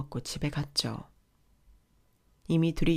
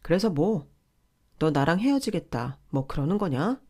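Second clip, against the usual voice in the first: a somewhat louder, retorting husband; raised voice; 4 dB louder than usual. Retold or imitated. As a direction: push back with a raised voice. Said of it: "이내 다시 목소리를 높였어요". (목소리를 조금 높여 맞받아치는 남편)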